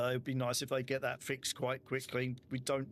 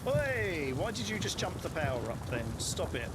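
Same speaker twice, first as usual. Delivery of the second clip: sharp raised call; 4 semitones higher than usual. Real, not acted. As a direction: shout at him, annoyed. Yelling at another player.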